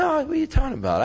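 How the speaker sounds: incredulous. Retold or imitated. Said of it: "He said".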